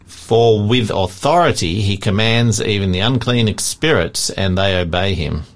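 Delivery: measured Bible read-aloud; reading scripture to a study group. Real, not acted. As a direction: read the verses out evenly and deliberately.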